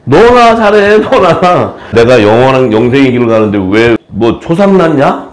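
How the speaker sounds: Jesus scoffing at the mourners, cheeky; mock retort. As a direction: tell them off with a cheeky grin. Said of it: "성경이 뭐라 했어요?".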